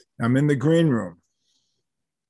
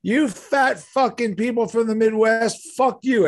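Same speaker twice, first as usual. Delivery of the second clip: high, slow mock yell at the crowd; imitating a yell at the fans; 8 semitones higher than usual. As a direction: rant at the audience like the brash diva. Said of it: "she starts yelling at him".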